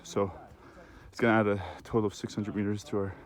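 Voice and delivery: gasping for air between words; out of breath. Real, not acted. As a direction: still winded, pushing words out. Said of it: "I'm really out of breath".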